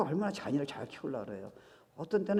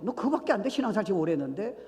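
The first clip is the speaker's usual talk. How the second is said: mock scolding; 5 semitones higher, 5 dB louder, faster than usual. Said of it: "하나님 우리를 꾸짖으셔야 돼요".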